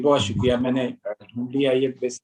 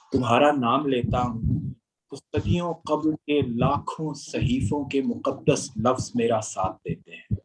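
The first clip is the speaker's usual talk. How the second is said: stately nazm recitation. Acted.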